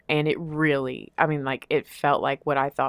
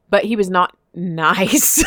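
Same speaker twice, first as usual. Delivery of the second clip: laughing; 5 dB louder, slower than usual. Real, not acted. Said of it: "laughing correction".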